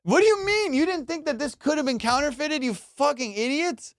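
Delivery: high-pitched comic outrage; exasperated scolding. Acted. Comic scolding experts fooled by fakes, exasperated. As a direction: berate absent experts in incredulous high voice.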